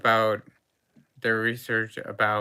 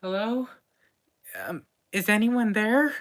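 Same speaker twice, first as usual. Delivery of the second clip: calling out; 10 semitones higher, 4 dB louder than usual. Acted. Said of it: "Raja calls out".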